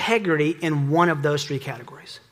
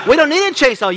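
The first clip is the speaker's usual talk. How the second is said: higher, louder scolding wife voice, laughing; mock scolding wife; 8 semitones higher, 6 dB louder, faster than usual. Wife scolding her husband about the chainsaw, in a loud, high, laughing mock voice. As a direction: play the exasperated wife, half laughing.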